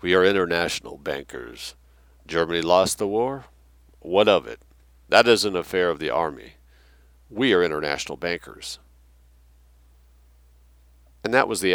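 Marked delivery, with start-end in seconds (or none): 0.0-8.8 slow oily voice. Retold or imitated. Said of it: "Imagine this slow, oily voice".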